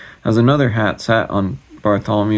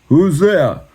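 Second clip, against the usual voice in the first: higher, louder call from the dark; gruff call; 8 semitones higher, 6 dB louder than usual. Acted. Executioner calling into the dark, loud challenge. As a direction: challenge the stranger from the blackness. Voice from the blackness.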